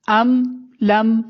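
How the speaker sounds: ام لم slow and separated, both m's closed; still meem. Shown as a demonstration. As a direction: pause between the words of ام لم, no bounce on m. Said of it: "کیسے پڑھیں گے؟". (ام لم ٹھہر کر، میم ہلائے بغیر)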